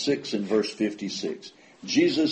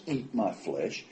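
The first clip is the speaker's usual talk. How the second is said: hushed emphasis; 2 semitones lower, 9 dB quieter, slower than usual. Acted. Quotes Jesus not backing away.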